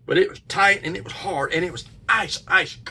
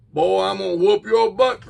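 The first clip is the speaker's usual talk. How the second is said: retold yell at the boy, a little louder; mock dad yelling he'll whoop him; dad's angry yell; 3 semitones higher, 5 dB louder than usual. Angry father yells at son after the scream, retold yell. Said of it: "screaming like that".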